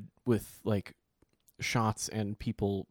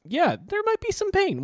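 sarcastic mock; 3 dB louder than usual. Mocking doctors over backwards ankle.

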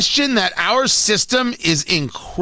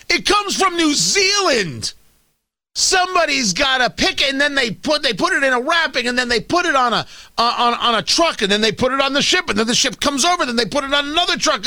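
a touch higher, building wonder; marvelling; 4 semitones higher, faster than usual. Real, not acted. Host explaining the kiwi's journey, lightly awed. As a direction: list each step like a small miracle. Marvelling at kiwi supply chain.

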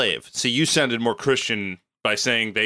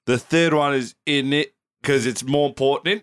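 put-on Cockney accent.

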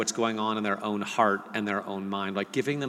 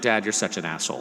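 laughing insult. Retold or imitated. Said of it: "he'll just be like".

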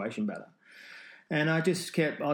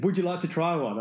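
offering farmer; 6 semitones higher, 5 dB louder than usual. Retold or imitated. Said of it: "He said".

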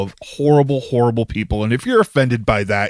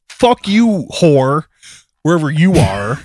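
angry curse; 5 dB louder than usual. Real, not acted. Cursing the store owner.

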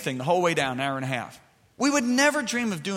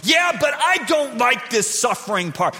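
complaining Paul; 4 semitones higher than usual. Retold or imitated.

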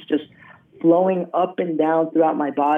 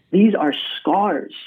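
retold doctor's words, drawn out slowly; slow, weighty reveal; 3 semitones higher, slower than usual. Doctor revealing the healing to his patient, slow and weighty. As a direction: let each word land, slow and deliberate.

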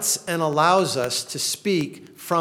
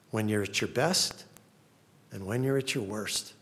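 tender God voice. Pretend. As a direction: comfort them gently as God. Speaks as God comforting his people.

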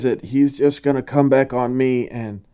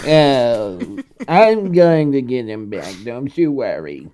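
werewolf voice; 2 semitones higher than usual. Acted. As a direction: deliver it like a lazy werewolf. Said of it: "That was really good".

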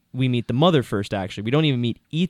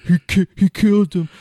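dramatic reveal voice; 6 semitones higher, 5 dB louder than usual. Retold or imitated. Imitating character revealing killer.

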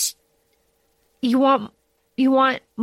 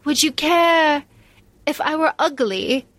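coy teasing question; 4 semitones higher than usual. Retold or imitated. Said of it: "she's like".

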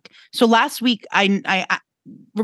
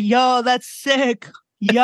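put-on impressed teen; 3 semitones higher, much slower than usual. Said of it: "this kid was like".

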